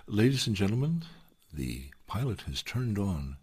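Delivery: lightly voiced cabin announcement; a hint of an airline captain's PA; flight attendant. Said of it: "I'm about to start the procedure of".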